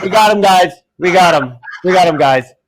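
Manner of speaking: teasing bandmate laughing on the phone; laughing gloat. Retold or imitated. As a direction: crow with a laugh at the prank. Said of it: "I just hear".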